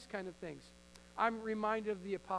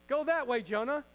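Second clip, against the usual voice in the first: a higher, louder stern God giving an order; God commanding Jonah; 4 semitones higher, 7 dB louder than usual. Acted. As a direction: order Jonah off with mock divine authority. God commanding Jonah, acted scene.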